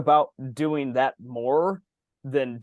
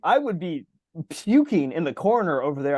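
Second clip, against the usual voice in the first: mock disgust; 3 semitones higher than usual. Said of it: "I'm like".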